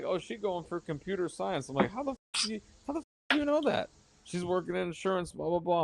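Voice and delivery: squeaky high disbelieving imitation; incredulous high mock voice. Retelling meeting his ex's cousins, high incredulous voice.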